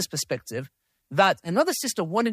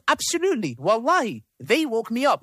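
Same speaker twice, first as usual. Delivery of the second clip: pitched way up on absolutely, insistent and eager; emphatic insistence; 5 semitones higher than usual. Retold or imitated. Reading the friend's text to the audience, eager and insistent. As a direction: sell it like she's dead certain.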